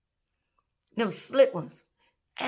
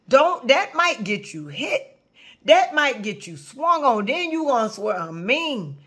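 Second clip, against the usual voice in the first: stern warning; 2 semitones higher than usual. Real, not acted. Stern lecture to audience.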